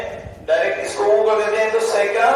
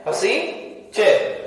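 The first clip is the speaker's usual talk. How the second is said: "हसीचर" drawn out very slowly; slow sutra recital; much slower than usual. Shown as a demonstration. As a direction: stretch "हसीचर" syllable by syllable. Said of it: "सूत्र है". ("हसीचर" बहुत धीरे, खींचकर)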